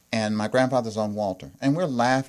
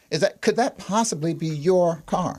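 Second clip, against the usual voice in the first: puzzled disbelief; 6 semitones higher than usual. Retold or imitated.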